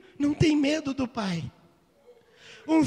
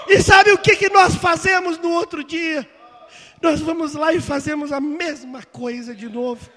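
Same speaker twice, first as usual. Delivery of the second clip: preaching shout; 5 dB louder than usual. Real, not acted. Preacher scolding the congregation for repeating sin, loud. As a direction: call the church out loudly.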